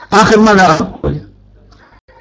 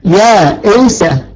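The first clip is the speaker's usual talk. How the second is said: slow demo word; much slower than usual. Shown as a demonstration. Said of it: "من أصله يائسة".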